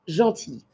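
gentille said like gentil, no final sound; same as masculine. Shown as a demonstration. Teacher modelling gentille for French learners. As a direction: gentille as zhan-tee, silent ending. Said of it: "le mot gentille, se prononce de la même façon".

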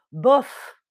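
unimpressed, shrugging "Bof"; indifferent shrug. Shown as a demonstration. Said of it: "là on dit ça en français".

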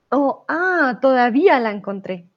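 hiccuping mid-sentence; talking through hiccups. Real, not acted. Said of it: "tengo hipo".

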